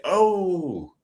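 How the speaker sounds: high, falling "oh"; imitated high-pitched wince; mock wincing shock. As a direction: react like a kid watching a whooping. Reacts to watching a whooping.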